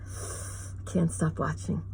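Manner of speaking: slow, hushed whisper to yourself; whispered aside. Real, not acted. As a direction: confess it under your breath, slowly. Hooked on a bad show.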